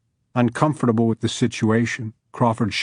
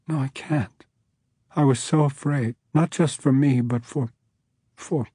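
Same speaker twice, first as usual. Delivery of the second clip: sobbing; 3 semitones higher than usual. Acted. Judge crying to the man, sobbing. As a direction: sob out the words. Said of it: "began to sob".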